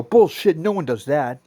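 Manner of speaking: mock disbelieving scoff; scoffing disbelief. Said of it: "other people go".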